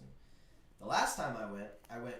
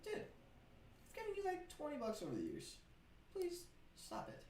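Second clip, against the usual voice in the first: 1 mock exasperated plea; 14 semitones higher, 10 dB quieter than usual. Retold pleading.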